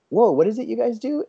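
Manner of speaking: high, amazed whoa; amazed parent. Retold or imitated. Parent asking the booth about toy photos, amazed and high. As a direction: play a parent struck with wonder.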